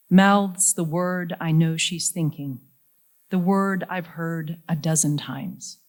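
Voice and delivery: measured poem recital with deliberate pauses; poetry reading. Acted. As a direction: read it line by line, letting each phrase land. Reads a poem to audience.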